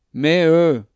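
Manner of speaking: loud, drawn-out whiny objection; mock-indignant protest. A narrator's reading. Woman teased by her companion, whining in protest. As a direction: protest loudly at being teased.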